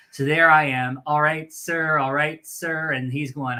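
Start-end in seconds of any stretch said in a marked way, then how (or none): 1.0-2.9 re-enacted recruit chant, held back; half-hearted imitation of a punishment yell; mild mock yell. Recruit re-enacting his trash can punishment, mild mock yell. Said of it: "yell at the top of my lungs".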